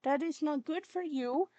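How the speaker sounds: slow, loud, emphatic telling-off; stern scolding. Real, not acted. Warning the kitten off the cord, stern scolding. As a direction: drive each word home to a naughty pet.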